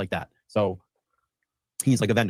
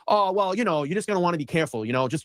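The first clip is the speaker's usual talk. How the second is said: imitating a friend's higher-pitched, hedging caution; lightly acted, evasive word of warning, pitched up; retold cagey warning; 5 semitones higher than usual. Friend warning the host after being questioned, imitated cagey caution.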